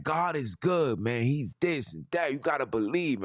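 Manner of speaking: mock a girl gushing about God; lightly voiced online girl praising God; imitating preachy girl. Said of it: "she like".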